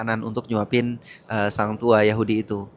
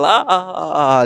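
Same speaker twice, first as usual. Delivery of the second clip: higher-pitched gloating "ah, ah, ah"; mock gleeful cheer; 4 semitones higher, 4 dB louder than usual. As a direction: act out delight at a rival's death. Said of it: "Dia seneng ketika Rasulullah meninggal". (sorak girang pura-pura)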